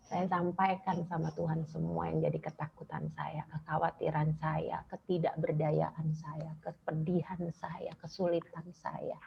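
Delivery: soft, barely voiced, emotional; quietly confiding her fears to God; hushed confession. Real, not acted. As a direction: let it sink to a near whisper.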